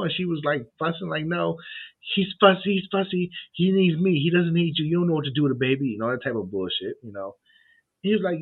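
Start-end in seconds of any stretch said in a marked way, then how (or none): 1.3-5.9 much higher, mock-insistent mother; hammed-up mom repeating herself.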